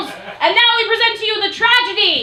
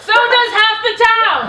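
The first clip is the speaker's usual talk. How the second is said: louder, slow bawdy punchline; shouted; 4 semitones higher, 5 dB louder, slower than usual. Acted. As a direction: shout the joke out.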